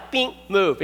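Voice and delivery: quick light honk sound, bing; short polite honk. Shown as a demonstration. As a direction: tap the horn once with your voice. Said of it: "Short honk is polite".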